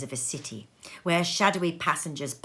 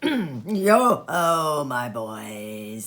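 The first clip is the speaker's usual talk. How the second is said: jovial call; 5 semitones lower, much slower than usual. A narrator's reading. Fezziwig calling apprentices.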